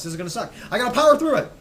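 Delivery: hoarse, losing her voice. Real, not acted. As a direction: push through a hoarse throat. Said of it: "I'm losing my voice".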